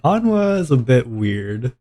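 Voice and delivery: lightly voiced viewer, drawn out slowly; mock viewer comment. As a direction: imitate a wary viewer, stretching the words. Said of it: "They're all like".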